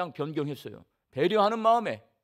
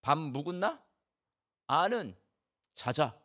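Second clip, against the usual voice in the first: terse Gyeongsang dialect, lightly voiced; a blunt Gyeongsang husband, clipped to three words; 4 semitones lower than usual. Pastor mimicking a terse Gyeongsang husband, lightly voiced. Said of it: "경상도 남자는 하루에 세 마디 한다는 농담".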